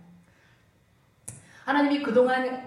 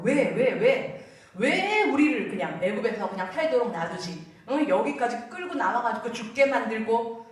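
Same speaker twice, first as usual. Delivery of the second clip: resentful complaint. Retold or imitated. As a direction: whine at God with mock accusation. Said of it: "하나님한테 왜를 찍어붙이는 거예요".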